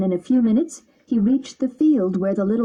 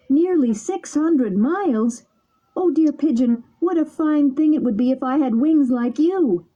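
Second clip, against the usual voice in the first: dismayed puppet; 6 semitones higher than usual. A narrator's reading. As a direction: echo the distance in dismay. Pinocchio dismayed.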